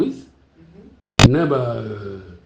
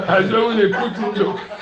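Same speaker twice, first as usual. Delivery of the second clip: laughing; 3 semitones higher than usual. Real, not acted. Joking with laughing congregation.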